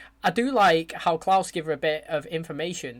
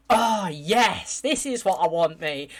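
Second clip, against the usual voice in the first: excited; 3 dB louder, slower than usual. Real, not acted. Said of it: "It is getting me so excited".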